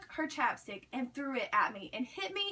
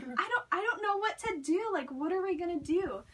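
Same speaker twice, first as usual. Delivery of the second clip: higher-pitched mock fretting; mild retold panic; retold flipping out; 5 semitones higher than usual. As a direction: imitate a friend flipping out, voice raised. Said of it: "she starts flipping out".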